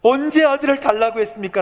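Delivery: high, strained protest, acted out; earnest, anguished appeal; desperate pleading. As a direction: break off after the first words, then plead upward. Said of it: "간절히 하나님 앞에 얘기를".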